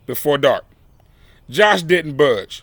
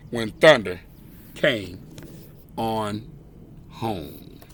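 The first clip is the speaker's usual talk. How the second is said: fading finish; 7 semitones lower, 9 dB quieter, slower than usual. A narrator's reading. Story's closing line, fading.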